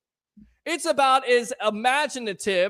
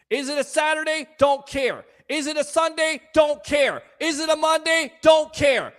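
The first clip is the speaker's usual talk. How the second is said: building shout; 5 semitones higher than usual. Real, not acted. Host dismissing the game day, building to a shout. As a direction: punch don't harder each time.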